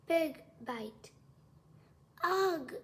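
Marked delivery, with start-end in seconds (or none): 2.2-2.7 high, loud cry of disgust; disgusted shout. A narrator's reading. Roy bites into the sandwich and spits it, shouting. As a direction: shout it while spitting out food. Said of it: "he shouted as he spit it out".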